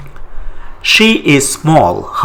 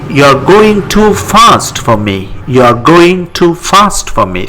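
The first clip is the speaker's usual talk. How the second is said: teacher prompt; 4 semitones higher than usual. Shown as a demonstration. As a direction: set the sentence to translate. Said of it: "Think and give your answer".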